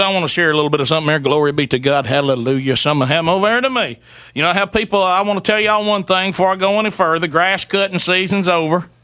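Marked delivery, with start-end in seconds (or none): 0.0-4.0 rushed mock preacher. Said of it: "He goes".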